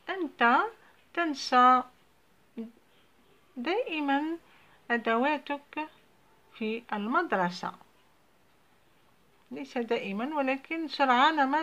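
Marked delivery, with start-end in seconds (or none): 0.1-7.7 louder, higher mock scolding; scolding mother. Teacher voicing the mother scolding her son, louder and higher.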